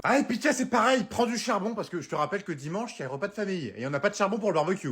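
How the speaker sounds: high, sing-song wife voice; chirpy partner reeling off errands; sweet wife voice. Acted. Wife sending her partner shopping, high and chirpy. Wife adds more items.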